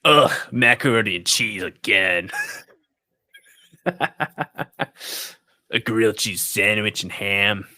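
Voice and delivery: put-on Gordon Ramsay-style British accent, scornful, slowed down; mock British chef sneering at the food; fake British accent. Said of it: "it's my fake British accent".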